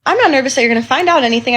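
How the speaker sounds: retold flustered denial, rushed out; taken aback. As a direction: blurt it out, caught off guard. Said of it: "I was taken aback".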